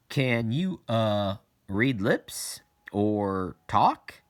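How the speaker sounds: put-on Jimmy Joe asking a deaf girl, words slowed and stretched; slow over-mouthed question. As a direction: spell each word out slowly, as if for lip-reading. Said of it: "he asked".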